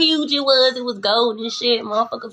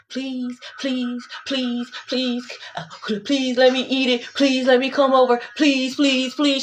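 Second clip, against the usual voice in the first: mock begging; slower than usual. Mocking begging people.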